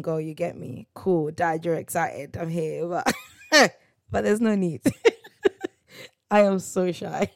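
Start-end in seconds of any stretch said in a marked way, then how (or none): 3.5-7.4 laughing through the words, embarrassed. Real, not acted. Telling viewers about dad's shout-out, laughing. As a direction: giggle it out, mortified.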